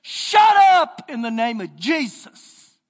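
slow, loud command; stern rebuke. Retold or imitated. Hagin rebukes the yakking demon, slow and loud. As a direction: rebuke the demon, foot stomped. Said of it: "stomps his feet and says".

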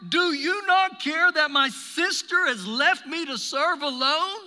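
loud, high, demanding complaint; a fed-up sister scolding; intense. Acted. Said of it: "I sense an intensity within her voice".

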